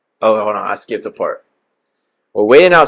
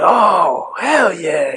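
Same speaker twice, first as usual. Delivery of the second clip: put-on London accent; 8 semitones higher, much slower than usual. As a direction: imitate a London street hustler's accent, pitched way up. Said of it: "You gotta hit him with the accent".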